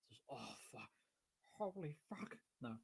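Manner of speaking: talking between big bites; wolfing down food. Real, not acted. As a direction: mouth full of food. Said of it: "Sorry, I'm starving".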